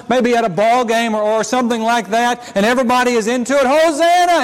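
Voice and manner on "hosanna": shout of joy. Acted. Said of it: "it's a shout of joy".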